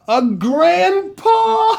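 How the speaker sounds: high, slow, laughing through the punchline. Real, not acted. Host telling kids a cat joke, laughing high and slow. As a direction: crack yourself up on the last words.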